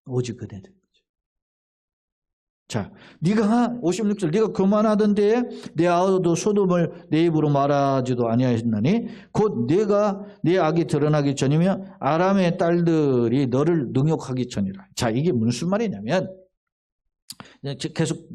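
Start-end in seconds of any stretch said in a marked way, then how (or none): 4.3-14.9 scripture reading. Acted. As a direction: read the verse out to the congregation.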